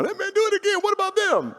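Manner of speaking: squeaky high quoted teammates; high mock voice of pushy friends; excited teammates.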